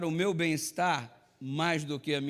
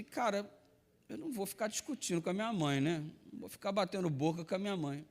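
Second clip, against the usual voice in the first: softer, fast under-the-breath grumble; muttered to himself; 6 dB quieter, faster than usual. Retold or imitated. Son grumbles to himself about his mother, softer and fast. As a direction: swallow it and mutter quickly. Inner thought, holding back anger.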